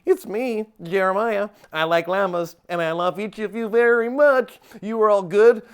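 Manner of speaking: lightly put-on impression voice; Jeremiah. Comic character imitating an encourager for the crew leaders, mild impression. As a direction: do a mock encouraging speech in someone else's voice. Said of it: "my best Jeremiah impression".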